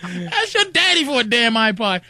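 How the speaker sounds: laughing through the words; laughing brush-off. Retold or imitated. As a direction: tell her off while laughing. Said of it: "So I'm like".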